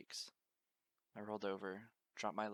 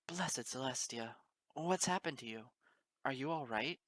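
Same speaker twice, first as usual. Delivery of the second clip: high, loud startled cries; alarmed exclaiming mare; 4 semitones higher, 6 dB louder than usual. Acted. Pony finding the stranger in the frost, loud high alarmed exclamation. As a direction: gasp out the worry, voice climbing high. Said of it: "all the while exclaiming".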